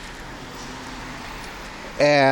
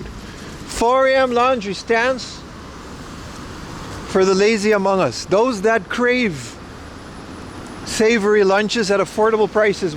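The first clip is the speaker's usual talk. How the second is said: high, drawn-out mock proclamation; mock-grand speech; 4 semitones higher than usual. Fast food fan defends the cheap lunch, mock-grand speech. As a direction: proclaim it like a pompous champion of the common man.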